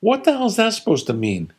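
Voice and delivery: high sarcastic retort; indignant. Retold or imitated. Father jabbing back at his son's quip. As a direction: needle him with the nickname.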